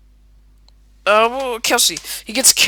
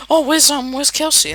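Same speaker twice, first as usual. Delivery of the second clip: higher, louder calling question; acted-out searching friend; 8 semitones higher, 4 dB louder than usual. Mick comes looking for Kelsey, higher puzzled question. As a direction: call out higher, wondering where your friend is.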